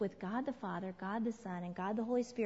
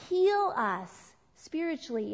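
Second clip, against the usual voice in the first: emphatic preaching; 4 semitones higher, 6 dB louder, slower than usual. Acted.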